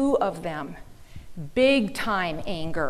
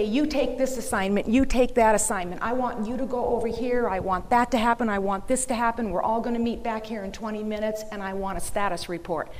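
firm, louder commanding boss; business boss orders; 3 dB louder than usual. Retold or imitated. Business owner giving staff their assignments, commanding. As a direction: bark out orders like a manager. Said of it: "How can I say".

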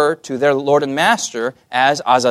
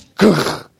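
short mock growl, a little higher; imitated judge's growl; 4 semitones higher than usual. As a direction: growl like a cartoonish stern judge. Mimics the stern British judge.

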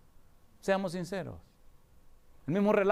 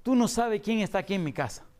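excited mother; 6 semitones higher than usual. Retold or imitated. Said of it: "muy emocionada".

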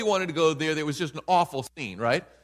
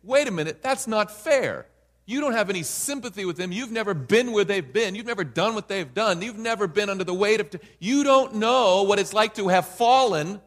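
objector; 3 semitones higher than usual. Retold or imitated. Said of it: "an objection could be raised to say".

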